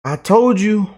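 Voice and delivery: ordinary talk, nothing marked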